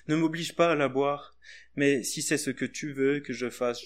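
expressive reading of a poetic Gospel passage; story reading. Acted. Preacher reading the Gethsemane story to the congregation, expressive. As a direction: read it like a tender storyteller.

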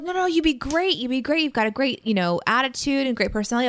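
imitated high, encouraging voice; gushing encouragement. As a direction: play an eager crowd talking someone up. Acting out others' encouragement.

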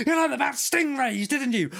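high, bright sing-song parent calling out; over-loud mother quizzing the kid; mock shouting mum. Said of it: "all she does is shout".

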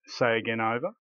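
clipped radio call sign; military radio operator voice; crackly military radio. Shown as a demonstration. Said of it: "This is military now".

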